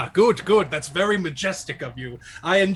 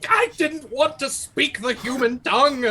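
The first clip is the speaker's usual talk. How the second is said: disgusted; 8 semitones higher than usual. Acted. Jackalope disgusted by human speech.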